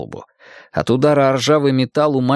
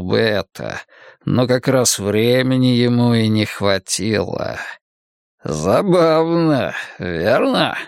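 sinister magician; slower than usual. Acted. Villain Cain speaks slowly.

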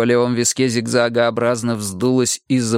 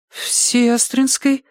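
confused; 13 semitones higher, much slower than usual. Acted. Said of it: "растерянно ответила медсестра".

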